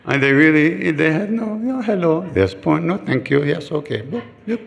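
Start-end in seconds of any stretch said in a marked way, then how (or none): 1.5-4.6 higher mock chatter in broken English; mimicking chatter. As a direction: rattle off polite phrases playfully.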